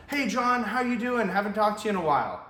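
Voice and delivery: put-on bright, loud, high hello to an old friend; friendly familiar greeting. Shown as a demonstration. Salesman showing a cold-call pitch, sounding like an old friend. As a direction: greet him like a buddy you haven't heard from. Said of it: "think it's somebody that you know".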